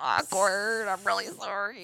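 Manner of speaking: soft, whimpering sorry; mock sheepish apology. Ole apologizing to Eru, soft and sheepish. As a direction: play it small and guilty. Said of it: "He was like".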